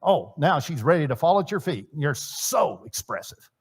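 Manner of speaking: mock admiration, slowing on the praise; tongue-in-cheek swooning; sarcastic. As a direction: gush drily with obvious sarcasm. Sarcastic praise of grunting husbands.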